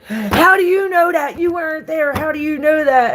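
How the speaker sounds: high, loud astonished question; amazed teens. Retold or imitated. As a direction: demand it in disbelief. Boys amazed mom knows.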